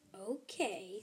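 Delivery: unsure little whisper; whispered okay. Acted. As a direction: breathe it doubtfully. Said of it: "said Bitty".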